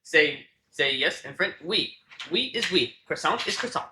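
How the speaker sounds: teacher's mock French accent; hammed-up French accent with lively pitch swings. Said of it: "she would talk in a French accent".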